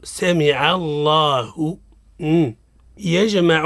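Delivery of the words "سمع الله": سمع الله slowly, with the lam in الله heavy after the fatha; slow teacher demo of سمع الله; correct heavy lam. Shown as a demonstration. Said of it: "الصواب".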